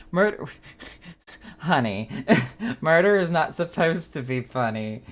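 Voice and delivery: high, loud, giggling through a mock scolding; laughing scold. Real, not acted. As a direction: laugh while telling them off. Mock scolding, laughing at murder joke.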